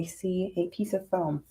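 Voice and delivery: soft unvoiced whisper. Real, not acted. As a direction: whisper it to yourself. Whispering to herself while crafting.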